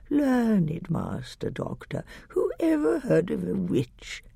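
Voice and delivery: put-on wheedling old witch, soft and drawn out; shrill whining hag. A narrator's reading. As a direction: whine and fawn like a crone. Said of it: "then the shrill whining voice began".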